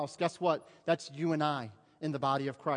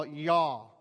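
drawn-out Arkansas drawl on Y'all; Arkansas accent; 4 dB louder than usual. Shown as a demonstration. Quoting wife's Arkansas cousins, Arkansas accent. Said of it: "cousins would say from Arkansas".

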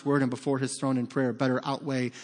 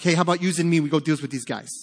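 lightly put-on Brooklyn accent, a bit louder at first; 2 semitones higher, 4 dB louder, faster than usual. Preacher voicing Jonathan rallying his armor bearer, hammy Brooklyn accent. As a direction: attempt a bad Brooklyn accent. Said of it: "sounding like he's from Brooklyn".

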